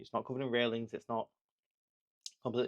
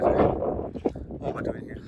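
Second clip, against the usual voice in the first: scared whisper; 3 dB louder, much slower than usual. Real, not acted. Terrified at the top of a cliff.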